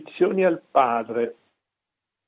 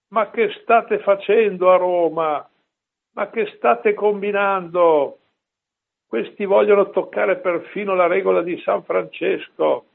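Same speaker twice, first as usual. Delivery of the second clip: raised, pitched-up cry of alarm; retold cry; 5 semitones higher than usual. Padre Pio crying out to his friars, raised alarmed voice. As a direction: call out toward Rome, alarmed. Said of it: "Guardando lontano gridò".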